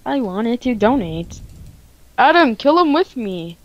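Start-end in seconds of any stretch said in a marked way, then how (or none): 0.1-1.4 slow, whiny mock quote. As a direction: parrot his excuse slowly and whiny. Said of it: "That's everybody's excuse".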